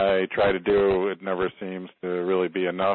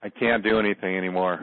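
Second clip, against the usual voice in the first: said on exhale. Shown as a demonstration. Client repeats the healer's phrase to release it, exhaling. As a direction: release the words with a long outward breath. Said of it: "exhale out through that area".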